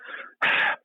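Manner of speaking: imitated cat huff; a short huff of breath, voiceless; huffy breath. Owner shows how the cat gives up, huffy breath. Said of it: "does a huffy breath".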